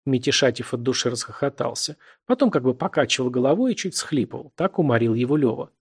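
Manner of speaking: plain reading voice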